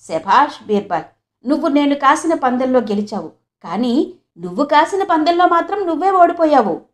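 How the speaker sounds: mildly teasing king, lightly ribbing. Acted. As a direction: needle him gently with a mild tease. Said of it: "కొద్దిగా ఉడికిస్తూ ఆ మాటలన్నాడు". (కొద్దిగా ఉడికిస్తూ సరదాగా)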